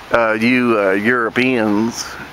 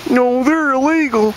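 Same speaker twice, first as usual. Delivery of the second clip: high whiny redneck parody; mock panicky redneck; 11 semitones higher than usual. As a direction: whine it like a scared hillbilly. Mocking anti-immigrant rednecks.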